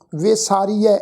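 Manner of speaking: ਵਿਸਾਰੀਐ with a drawn-out final ai, ʋesariɛː; ਵਿਸਾਰੀਐ spelled out slowly, dulavan sounded; careful pronunciation. Shown as a demonstration. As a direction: end ਵਿਸਾਰੀਐ on a long open ai vowel. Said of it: "ਐੜੇ ਦੇ ਉੱਪਰ ਦੁਲਾਵਾਂ ਦਾ ਪਾਠ".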